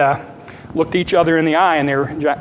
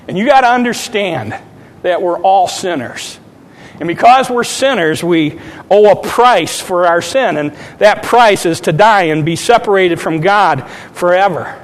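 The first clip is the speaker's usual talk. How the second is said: raised, emphatic gospel appeal; fervent preaching; 2 semitones higher, 3 dB louder than usual. Retold or imitated. Son pleading with his mother that we're all sinners, fervent preaching.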